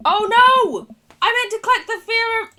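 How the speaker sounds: high panicked yelp; sudden oh-no panic. Real, not acted. Misclicked in the game.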